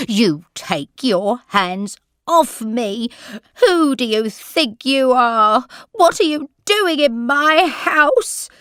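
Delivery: put-on old lady shouting at her carer to let go; angry shout. A narrator's reading. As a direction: push the stranger away, shouting. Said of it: "she shouted".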